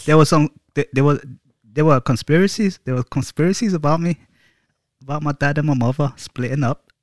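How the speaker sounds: badly faked Scottish-or-Irish accent; butchered accent. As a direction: attempt a Celtic accent and butcher it. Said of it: "Don't do the accent".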